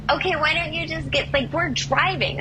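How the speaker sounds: high, hurried call between cars; calling back. Retold or imitated. Driver answers pushy stranger while driving, calling back. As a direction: imitate calling out over traffic.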